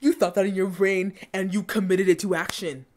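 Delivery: firm, incredulous telling-off; emphatic, outraged rebuke; indignant scolding. Real, not acted. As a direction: spell out the accusation with force. Indignant at bullying scene.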